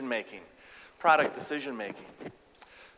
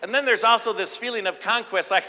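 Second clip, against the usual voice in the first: ordinary delivery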